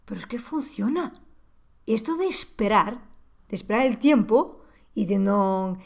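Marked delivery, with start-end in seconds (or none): 0.1-1.1 a small inner wow, realising it works; mild inner surprise; surprised self-talk. Retold or imitated. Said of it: "me puse a hablar conmigo mismo".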